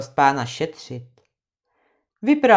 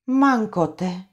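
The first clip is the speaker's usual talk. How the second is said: cry out; 2 semitones higher than usual. Acted. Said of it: "vykřikla ještě jednou Anče".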